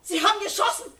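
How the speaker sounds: loud, high and shaken after being shot at; shocked outcry. Acted. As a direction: gasp it out in terror. Mother shot at by guards.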